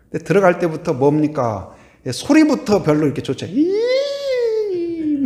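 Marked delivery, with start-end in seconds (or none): 3.6-5.2 long high-pitched eerie wail; eerie haunted-house noise. Retold or imitated. Preacher imitating haunted-house sounds for the congregation, eerie wail. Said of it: "막 이상한 소리 나고".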